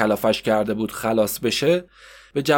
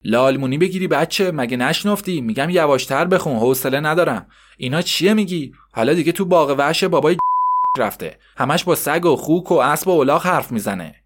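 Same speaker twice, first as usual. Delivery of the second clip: scolding mother. Acted. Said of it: "کبرا باز میگه".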